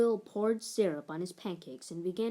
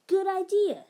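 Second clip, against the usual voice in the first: eager agreement; 11 semitones higher, 7 dB louder than usual. A narrator's reading.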